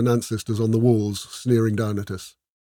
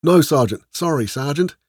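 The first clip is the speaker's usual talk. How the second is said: higher-pitched, chastened soldiers; chastened reply; 6 semitones higher, 3 dB louder than usual. A narrator's reading. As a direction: answer the sergeant like a scolded recruit. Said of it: "we mumbled in reply, chastened".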